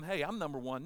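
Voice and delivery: mock disciple staking his claim; bickering boast. Disciples arguing over who is best, mildly boastful. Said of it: "they're arguing about who's the best".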